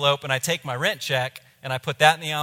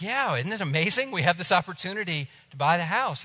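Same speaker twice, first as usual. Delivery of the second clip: higher, eager and cheery, clueless; naive excitement; 4 semitones higher than usual. Retold or imitated. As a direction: gush about the great news to the landlord. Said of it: "Oh, he wants to congratulate us".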